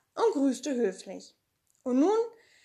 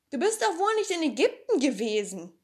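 doubting Tommy; 5 semitones higher, 4 dB louder than usual. Acted.

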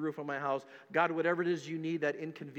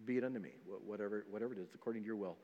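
much softer, a hushed yielding prayer; surrendered prayer; 7 semitones lower, 12 dB quieter, faster than usual. Pretend. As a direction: pray it quietly, letting go of control. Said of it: "to truly be able to say".

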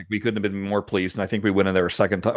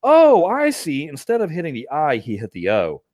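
dawning realisation; 4 semitones higher than usual. Retold or imitated. Reader decoding typos, realising.

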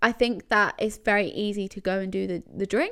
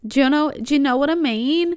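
loud, higher-pitched imitated Love Island accent; bad accent impression; 5 semitones higher, 6 dB louder than usual. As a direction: badly imitate a reality-show contestant's accent. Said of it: "that was a bad accent".

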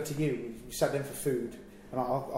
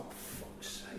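whispered curse under the breath; retold sulking, very soft and voiceless; sulky; 15 dB quieter than usual. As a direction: grumble it almost silently. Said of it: "with a marred on me".

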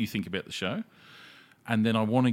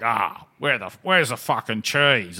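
mock ad-lib; 6 dB louder, slower than usual. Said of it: "And you're like".

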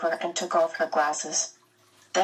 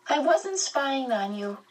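quickly; 8 semitones higher than usual. A narrator's reading. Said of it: "he said quickly".

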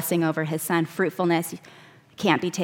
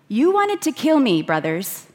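Joseph confronting brothers; 5 semitones higher than usual. Acted. Joseph to the brothers who betrayed him, pained accusation. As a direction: call them out, wounded.

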